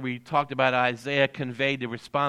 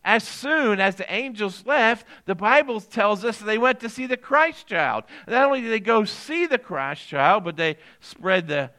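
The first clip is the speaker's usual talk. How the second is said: raised, emphatic preacher's delivery; preaching; 8 semitones higher, 7 dB louder than usual. Real, not acted. Pastor assuring the congregation of everlasting joy, preaching. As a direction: build it up like a preacher driving home a promise.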